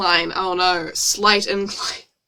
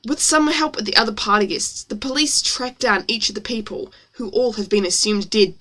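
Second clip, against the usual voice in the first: story read in an exaggerated American accent. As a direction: narrate with put-on American vowels. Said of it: "it's exaggerated for effect".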